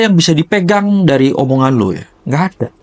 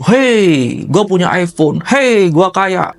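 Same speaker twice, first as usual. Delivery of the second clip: mock show-off; 3 semitones higher, much slower than usual. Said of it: "mencari validasi".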